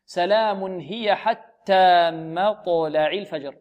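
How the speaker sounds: very slow, drawn-out Qur'anic recitation; measured recitation. Shown as a demonstration. Teacher recites the verse for analysis, measured recitation. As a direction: stretch the long vowels of the verse evenly.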